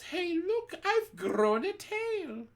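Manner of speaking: high, slow startled yell; girl yelling in alarm at her tail. A narrator's reading. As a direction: yell it in shock at your own tail. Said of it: "She yells".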